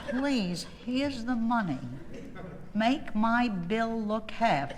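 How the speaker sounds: slow, hammed-up plea; mock begging. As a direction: beg the company, stretching the last words. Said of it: "I begged them".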